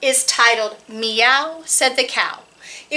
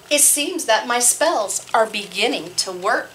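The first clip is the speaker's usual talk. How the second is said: sly smirk; 2 semitones lower than usual. Acted. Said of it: "with a sly little smirk".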